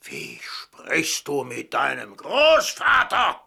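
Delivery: slow whispered reproach; stern whisper to a disrespectful grandson; hushed rebuke. Acted.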